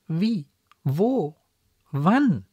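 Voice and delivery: three separate high-pitched questions, each swooping; bewildered questioning. A narrator's reading. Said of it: "fragte die Marquise verwirrt". (verwirrt fragend)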